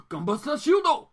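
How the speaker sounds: shouted high like a mecha hero calling his move; big high anime attack shout; anime battle cry. Retold or imitated. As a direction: belt out the robot's attack name. Quoting the anime's attack call.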